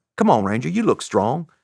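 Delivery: bad, put-on Southern accent. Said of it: "I don't have a very good Southern accent".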